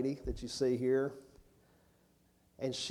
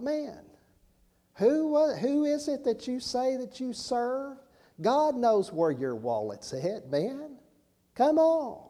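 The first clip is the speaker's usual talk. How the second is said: much higher, incredulous mock scolding; exasperated disbelief; 10 semitones higher, slower than usual. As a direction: scoff at a panicking preacher. Retold exasperated thought at preacher.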